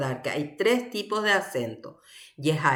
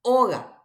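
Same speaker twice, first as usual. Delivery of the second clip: Oga with a higher opening O, falling after; stress on first O; 4 semitones higher, 4 dB louder than usual. Shown as a demonstration. Teacher contrasting the two accents, stress on first O. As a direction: lift the O at the start of Oga.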